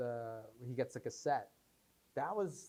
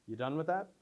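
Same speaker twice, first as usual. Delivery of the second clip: rising, questioning audition read of "that"; bland audition read; 4 semitones higher than usual. Retold or imitated. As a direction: read it like one of five hundred hopefuls. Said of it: "literally just people going".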